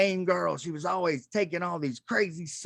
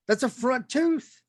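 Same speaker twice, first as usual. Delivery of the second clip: bouncer deadpan; 9 semitones higher, slower than usual. Retold or imitated. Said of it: "And he goes".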